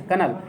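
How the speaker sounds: कर्नल as kernel, no spoken L; correct pronunciation. Shown as a demonstration. Teacher modelling the correct pronunciation of कर्नल. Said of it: "कर्नल इसका शुद्ध उच्चारण है".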